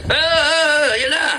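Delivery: high, mocking panicky outburst; a hint of a hothead losing it. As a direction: lightly mimic a rash hothead. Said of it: "hindi yung ganyan na".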